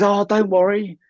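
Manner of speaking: high-pitched mock reassurance; imitating wife's friend. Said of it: "and she goes".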